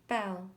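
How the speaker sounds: "belle" said on its own as a model; French pronunciation. Shown as a demonstration. Narrator teaches the fancy word belle, careful French pronunciation. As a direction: show how to say "belle". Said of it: "You say it like this".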